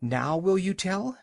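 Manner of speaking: breathless high demand; panting after shouting; out of breath. A narrator's reading. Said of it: "all out of breath".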